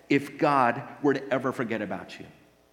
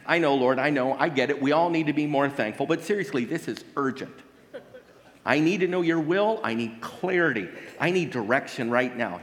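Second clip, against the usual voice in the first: impatient pleading prayer; 2 semitones higher, 3 dB louder than usual. Retold or imitated. Acted impatient prayer to God.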